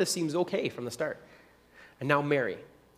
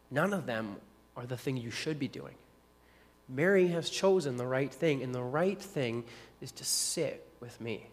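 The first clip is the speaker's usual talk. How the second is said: gentle rebuke. Retold or imitated. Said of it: "Jesus says".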